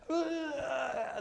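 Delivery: high, drawn-out "aah"; mock long wail. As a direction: imitate an endless, high-pitched moan. Imitates someone rambling unclearly.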